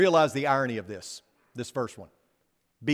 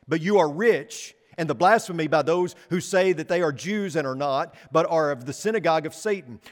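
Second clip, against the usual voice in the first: raised, measured Bible reading; solemn reading from the pulpit; scripture reading; 2 semitones higher, 3 dB louder than usual. Acted. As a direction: read the verses out to the congregation. Reads scripture passage aloud.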